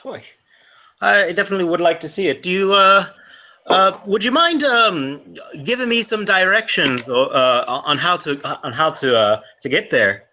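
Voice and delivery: a fading Irish lilt; Irish accent. Acted. Irishman asking for directions, fading Irish accent. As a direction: keep a light Irish brogue. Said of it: "I'm slipping out of my".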